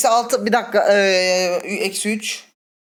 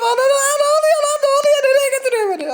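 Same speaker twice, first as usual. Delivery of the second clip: much higher, louder frantic cries; real fright, voice pitched way up; high panic; 4 dB louder than usual. Real, not acted. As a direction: cry out as something hauls you away. Being dragged away by enemy.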